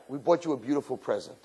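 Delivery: quiet teasing friends; hushed secret. Retold or imitated. Girls whisper secret present.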